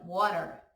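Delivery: "Water" said wah-ter, tapped r, falling; English "water". Shown as a demonstration. Teacher models Water before students repeat. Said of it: "Repete aí".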